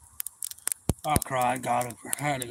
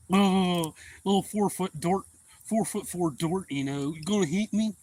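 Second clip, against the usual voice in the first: loud, higher sneering taunt; mocking taunt; 6 semitones higher, 6 dB louder than usual. Bully taunting the short boy, loud sneer. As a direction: belittle him to his face.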